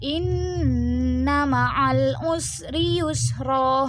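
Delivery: slow recitation, YUSRA ending on a long open vowel; contoh bacaan mad iwad. Shown as a demonstration. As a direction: draw out "inna ma'al usri yusra", no n at the end. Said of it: "macam mad iwad ni gimana". (bacaan pelan, akhir YUSRA dipanjangkan tanpa bunyi n)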